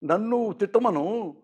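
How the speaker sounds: imitating a man speaking through tears; tearful plea. Chiranjeevi on the phone to his friend, softly tearful. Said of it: "కన్నీళ్ళు పెట్టుకుని మాట్లాడుతుంటే".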